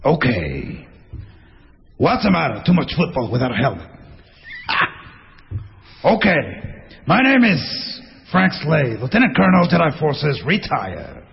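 slow, deliberate retired-colonel impression; Pacino. Retired colonel introducing himself, movie-star impression. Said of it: "Es Pacino".

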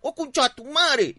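high, loud drawn-out holler; yelled insult. Retold or imitated. Angry neighbour yelling at rocket thrower on his roof, loud shout. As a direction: yell the curse up at the culprit. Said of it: "Le grité".

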